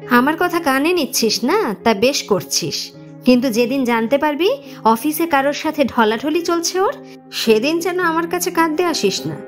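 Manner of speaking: hurt, scolding mother with rising pitch; reproachful warning. Acted. Mother warns her son about his wife, reproachful. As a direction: warn him pointedly, offended.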